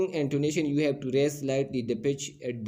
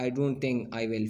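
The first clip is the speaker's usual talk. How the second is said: "I don't think I will" slowly, falling at the end; slow, measured drop on "I don't think I will"; falling intonation; much slower than usual. Shown as a demonstration. Teacher demonstrating intonation, slow falling "I don't think I will". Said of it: "falling है".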